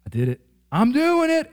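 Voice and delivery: put-on high, excited child's cry of triumph; thrilled child. Preacher voicing a child's first solo ride, high and thrilled. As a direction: squeal it like a kid who just let go. Child riding bike alone.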